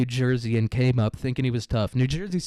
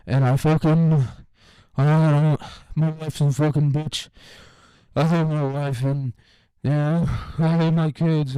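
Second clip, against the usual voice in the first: put-on loud, higher, slow drunken-sounding senator rant; rambling senator; 3 semitones higher, 5 dB louder, slower than usual. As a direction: ham up a barely coherent senator leaning on a desk. Mock senator rambling on floor.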